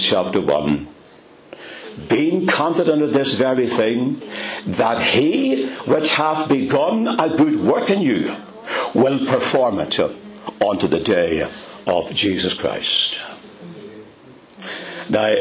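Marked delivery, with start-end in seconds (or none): 2.1-13.2 preacher quoting Philippians with conviction; scripture reading. Acted. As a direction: read the verse with rising confidence. Reads scripture.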